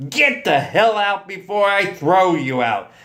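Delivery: high, forceful command; shouted. A narrator's reading. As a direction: throw him out with your voice. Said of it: "and shouted".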